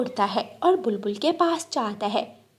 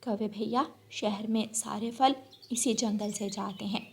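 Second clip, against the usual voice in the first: much softer, gently explaining; patient bulbul; 7 dB quieter than usual. Acted. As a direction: bulbul teaching the crow where fruit comes from. (धीमी, समझाती बुलबुल की आवाज़)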